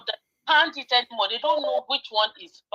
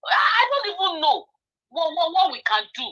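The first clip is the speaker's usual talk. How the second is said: real anguished cry; 2 semitones higher than usual. Real, not acted. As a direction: voice breaking in distress. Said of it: "I am so demoralized".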